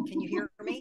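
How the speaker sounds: loud, high call into the microphone; shouting. Real, not acted. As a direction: shout so the far end hears. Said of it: "Okay, I'll shout".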